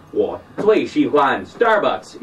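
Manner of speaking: mock Chinese-accented STARBUCKS; hammed-up Chinese accent, STARBUCKS said directly. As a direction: imitate a Chinese speaker saying STARBUCKS clearly. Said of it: "Chinese people say Starbucks better".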